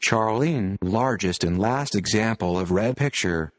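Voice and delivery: computer-generated reading voice. Real, not acted. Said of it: "audio using a computer-generated voice".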